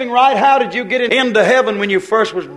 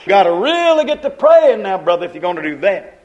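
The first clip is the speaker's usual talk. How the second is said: louder insistent lecturing; hammed-up church scold pushing fasting; mock legalist advice; 4 dB louder than usual. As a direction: preach fasting at him. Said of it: "Somebody would say".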